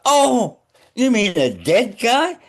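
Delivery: comic disbelief, voice leaping high; retold shocked realisation. Retelling his shock at the cadaver.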